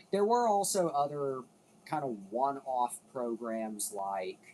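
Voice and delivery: breathless, gasping between words; out of breath. Real, not acted. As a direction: talk while winded. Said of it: "let me catch my breath".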